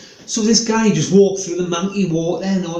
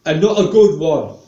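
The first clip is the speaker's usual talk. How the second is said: cheeky accusation; 4 semitones higher than usual. Shown as a demonstration. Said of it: "just say".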